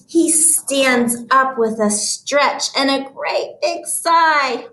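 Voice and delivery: expressive storybook read-aloud. Shown as a demonstration. Teacher resumes Bear's story for children, reading voice. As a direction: read to children, lifting the final words. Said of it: "my reading voice again".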